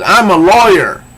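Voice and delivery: high, loud acted shout. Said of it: "louder, but she says".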